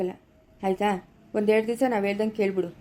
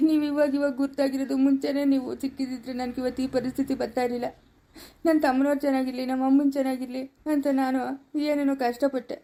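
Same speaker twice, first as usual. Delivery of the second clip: tearful. Acted. Betrayed man weeps to elder.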